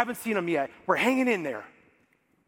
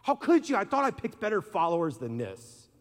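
imagined angry Jesus. Pretend. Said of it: "be like".

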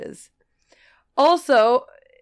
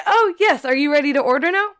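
customer service voice; 6 semitones higher, 5 dB louder, faster than usual. Retold or imitated. Clerk voice again.

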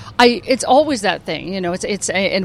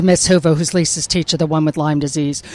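lightly voiced cartoon schoolteacher; a hint of an ailing teacher; Miss Hoover; 4 semitones lower than usual. Shown as a demonstration. Actress rattling off her characters, light teacher voice. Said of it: "thank you very much for doing the voices".

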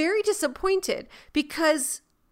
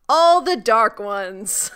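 slow, drawn-out episode title; title announcement; 2 semitones lower, 3 dB louder, slower than usual. Pretend. Host reveals what this episode was called, slow and portentous. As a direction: announce it slowly, word by word.

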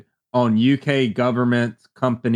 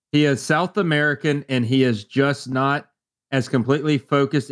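level, measured read-aloud with long pauses; monotone reading. Real, not acted. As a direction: read it out evenly, like a church reading. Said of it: "Read that so monotone".

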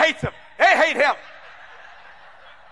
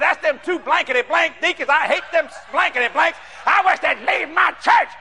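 mimicked screaming; 3 semitones higher than usual. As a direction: imitate a fuming pastor's complaint. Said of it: "Now he's screaming this".

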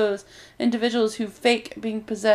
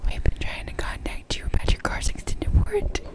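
whispered robocall line; breathy robocall whisper; 11 semitones higher than usual. Pretend.

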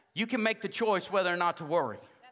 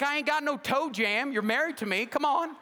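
higher, laughing brush-off; playful retort; 6 semitones higher than usual. Retold or imitated. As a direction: laugh off your wife's worry. His reply to wife.

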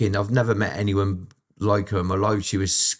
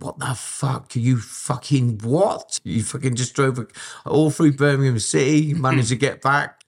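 imitating mum's gobsmacked disbelief; shocked mum; 4 semitones higher than usual. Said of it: "She went".

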